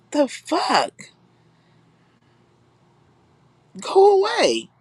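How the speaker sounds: keyed-up, dismissive rant with slowed stretches; mocking a rude guest. Acting out the guy she's mocking, dismissive and keyed up. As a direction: brush him off like he's a pest, laughing through it. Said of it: "He said".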